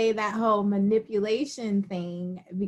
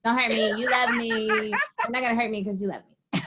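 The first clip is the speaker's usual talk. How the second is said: mock pleading. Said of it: "be like".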